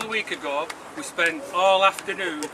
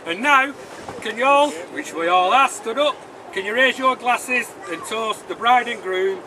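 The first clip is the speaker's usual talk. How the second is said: raised voice, calling the whole room; rallying toast call; 4 semitones higher, 3 dB louder than usual. Real, not acted. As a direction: get everyone to stand and toast.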